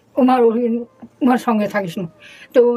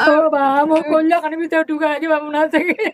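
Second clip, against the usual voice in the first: tearful lament. Real, not acted. Mother laments, clutching her found child.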